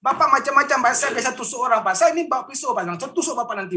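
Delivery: imitating his past angry self; retold angry threat. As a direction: reenact threatening the mentor in anger. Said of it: "saya dengan emosi gitu".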